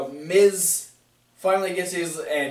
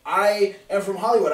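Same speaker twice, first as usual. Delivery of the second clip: mildly pouty, higher-pitched mock tantrum; 4 semitones higher, faster than usual. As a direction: sulk like an offended star. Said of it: "Miz is pouty".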